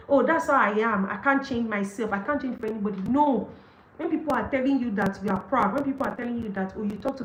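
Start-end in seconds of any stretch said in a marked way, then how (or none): 0.1-3.0 stubborn excuse. Retold or imitated. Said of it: "it's a nonsense talk".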